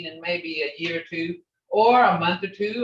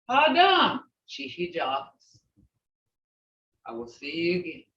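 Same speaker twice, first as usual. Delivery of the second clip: heartfelt farewell; 4 semitones lower than usual. Shown as a demonstration. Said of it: "when you listen to my tone now".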